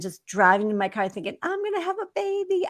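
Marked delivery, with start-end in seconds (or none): 1.4-2.7 high, fast, giddy; bursting with joy to yourself; overjoyed. Retold or imitated. Overjoyed in the car.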